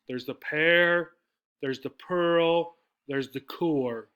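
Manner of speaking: slow, with "pear", "pearl" and "core" each stressed as its own item; pointing out each noun. Shown as a demonstration. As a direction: list the nouns one by one, leaning on "pear", "pearl", "core". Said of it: "If we look at the nouns".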